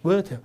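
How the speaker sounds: water with a clear T and no R; crisp T in water, open ending; British water. Shown as a demonstration. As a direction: say water as "weo-tuh". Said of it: "water 이렇게 써요".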